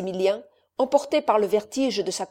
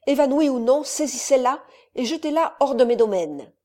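raised, higher-pitched order to the servants; angry order; 4 semitones higher, 4 dB louder than usual. Acted. Count orders servants to throw Rosemonde out, angrily raised. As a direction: bark it out to the valets.

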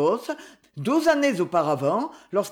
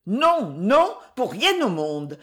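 cried refusal; slower than usual. Acted. Daughter refusing her father, cried refusal. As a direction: push the refusal out hard. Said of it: "s'écria-t-elle".

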